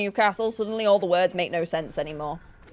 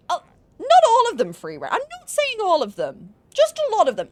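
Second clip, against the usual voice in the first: high teasing; 12 semitones higher, 5 dB louder than usual. Real, not acted. Teasing about southerners.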